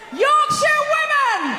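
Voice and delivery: slow, rising Yorkshire women reveal; announcing the Yorkshire women to the crowd with a drawn-out call; announcer shout. Real, not acted. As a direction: draw out the big reveal to the crowd. Compere announcing the act.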